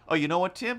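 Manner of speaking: teasing challenge; mock taunting. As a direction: needle him playfully. Retold taunting message.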